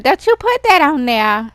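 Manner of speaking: very high loud shriek; shrieking protest. Pretend. Gianna protests the posting.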